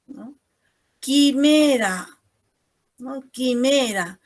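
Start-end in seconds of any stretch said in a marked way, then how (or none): 1.0-2.1 "Quimera" drawn out slowly as ki-ME-ra; silent U. Shown as a demonstration. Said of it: "Yo no pronuncio ahí la U". 3.3-4.2 "Quimera" said ki-ME-ra, no u sound; silent U. Shown as a demonstration. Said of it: "Yo no pronuncio ahí la U".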